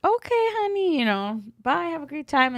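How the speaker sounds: high-pitched sugary imitation of a driver; Uber driver. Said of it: "my Uber driver was like".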